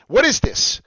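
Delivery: high, loud burst of astonishment; exclaimed question. Real, not acted. Host shows viewers his find, exclaimed question.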